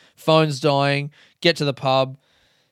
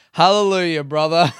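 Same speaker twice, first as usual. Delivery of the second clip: mock preacher praise; 2 semitones higher, 5 dB louder than usual. Jokey praise reply.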